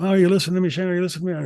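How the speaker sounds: droning, rambling, continuous mumble. Retelling a long phone call, imitating Terry mumbling on. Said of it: "he just keeps mumbling on like this".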